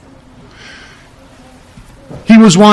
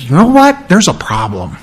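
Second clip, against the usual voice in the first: abrupt rebuke; 2 semitones lower than usual. Acted. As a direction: turn on them with a mild acted rebuke. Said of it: "He flipped around and said".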